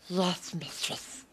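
a lightly voiced hissing cave creature, mostly in own voice; mock creature voice, barely changed from own; creepy creature voice. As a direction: play a wheedling cave creature, half-hearted. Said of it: "the accent challenge".

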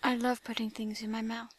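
slow, breathy seductive whisper. Acted. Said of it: "Slowly and seductively".

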